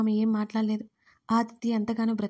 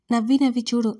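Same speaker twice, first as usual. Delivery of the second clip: louder, playful scolding over నవ్వి నవ్వి; a teasing pretend grumble; mock-cross complaint; 6 dB louder than usual. Girl playfully scolds her lover after being tickled, louder and mock-cross. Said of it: "చిరుకోపంగా చూస్తూ".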